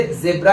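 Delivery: ज़ेब्रा with 'zeb' at the start; Indian pronunciation. Shown as a demonstration. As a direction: use an 'e' vowel in ज़ेब्रा. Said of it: "हमारे यहाँ इसे". (ज़ेब्रा में 'ज़े')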